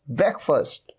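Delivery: ब्रेकफास्ट ending in a short "fust"; correct breakfast. Shown as a demonstration. Teacher modelling "brek-fust" for students. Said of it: "फास्ट नहीं".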